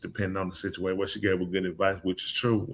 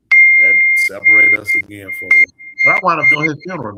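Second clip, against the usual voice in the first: much higher, louder exclamation; excited outburst; 14 dB louder, faster than usual. Real, not acted. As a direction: burst out high and loud. Excited retelling climax.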